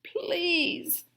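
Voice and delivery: high pleading wail. A narrator's reading. Fox wailing up at the dentist. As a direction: beg with a wail. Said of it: "the fox wailed".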